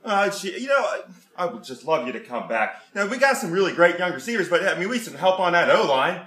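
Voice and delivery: put-on thick Pittsburgh yinzer accent, dropped grammar, "jeez" fillers. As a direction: play an over-eager Pittsburgh superfan. Comic Pittsburgh superfan character.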